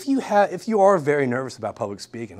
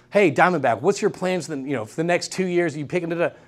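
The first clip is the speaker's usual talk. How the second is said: disengaged. Shown as a demonstration. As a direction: ask it like you don't care. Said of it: "If you're talking like this".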